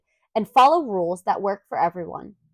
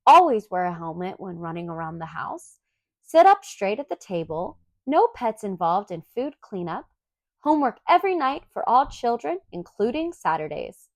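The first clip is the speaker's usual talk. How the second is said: reading rules aloud. Acted. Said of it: "Luna read the rules aloud".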